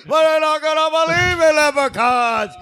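loud exasperated outburst; exasperated rant. Real, not acted. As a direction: rant about the disbelievers. Ranting about Americans, loud.

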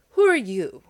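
loud challenging call; cry out. Acted. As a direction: call out boldly across the field. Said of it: "cried Makoma".

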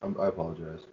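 soft whisper right into the ear. Acted. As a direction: lean in and whisper an apology. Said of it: "This is me whispering into your ear".

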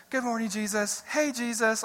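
imitated sincere greeting, lifted in pitch; sincere, casual prayer. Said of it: "it's the most sincere thing".

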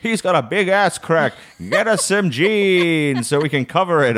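high-pitched mock mum voice; imitated blunt mum. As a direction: send up mum telling the shop. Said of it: "And my mum's like".

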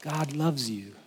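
soft, mock lifeless preacher; flat preacher voice. Pastor mocking the dull preacher's phrases. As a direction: say it limp and slow. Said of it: "saying phrases like".

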